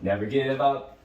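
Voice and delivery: "Never give up" drawn out for listeners; very slow. Shown as a demonstration. Teacher asks pupils to listen to "Never give up", slowly. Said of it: "gonna sing it very slowly".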